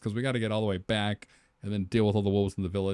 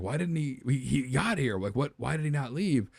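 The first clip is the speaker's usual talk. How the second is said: lightly distraught, higher-pitched questioning; halting mock-tearful protest; acted tearful bewilderment; 4 semitones higher than usual. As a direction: act out a child upset over Dad. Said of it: "they kinda freak out and they're sad".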